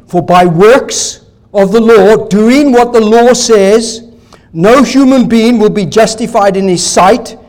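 slowed-down verse, each phrase "For by works of the law" drawn out. Shown as a demonstration. Preacher rereads the verse to his congregation, slow and deliberate. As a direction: reread it slowly so it sinks in. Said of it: "Let me just say it again".

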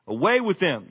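mild mock yell. Crowd yelling at Pilate, a mild mock yell. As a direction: raise it a little like an angry crowd. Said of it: "they yelled".

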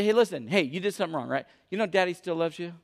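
put-on quiet, gentle word to a small child; reassuring father. Dad sits his son down, gently reassuring.

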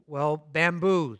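slow, measured and grave; serious. Acted. Master gravely addressing bamboo, slow serious tone. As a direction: weigh each word like bad news. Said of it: "the master's voice said seriously".

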